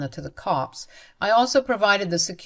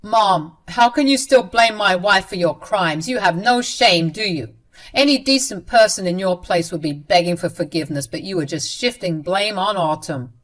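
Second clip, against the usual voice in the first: louder scolding son; mild mock yell; 6 dB louder than usual. Son scolding his mother, louder and stern. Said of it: "He basically yelled at her and said".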